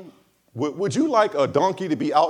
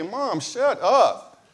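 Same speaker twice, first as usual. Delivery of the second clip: put-on kid talking back; 4 semitones higher, much slower than usual. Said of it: "the kids just be wanting to say".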